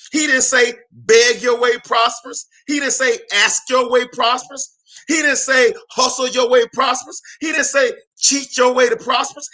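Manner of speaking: rising preacher list; preaching emphasis. Real, not acted. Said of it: "preacher contrasting wrong verbs".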